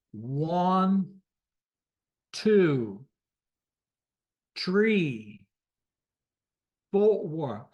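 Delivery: each number alone, slow and stressed, three as TREE; exaggerated radio digits, five as FIFE; radio number pronunciation. Shown as a demonstration. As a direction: drill one to zero, four as FOW-er, niner in full. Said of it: "shows you how you pronounce it".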